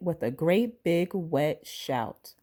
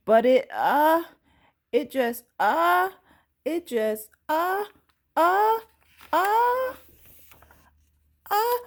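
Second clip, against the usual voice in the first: rising higher and higher into a big achoo; sneeze building up; 12 semitones higher, 3 dB louder than usual. Acted. Child fighting back a sneeze until it explodes. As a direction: wind up a sneeze that finally bursts.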